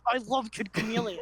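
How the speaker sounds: forced words through clenched teeth, half laughing; through gritted teeth. Pretend. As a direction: grit your teeth and force it out. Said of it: "I said through gritted teeth".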